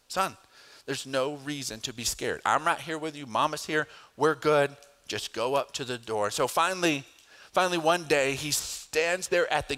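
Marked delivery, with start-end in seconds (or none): 0.1-6.3 reassuring dad. Retold or imitated. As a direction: gently coax him forward. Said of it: "It's like".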